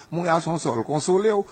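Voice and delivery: high hammed-up lament; mock crying mother. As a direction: imitate a mourning mother wailing. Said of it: "e manman tonbe kriye".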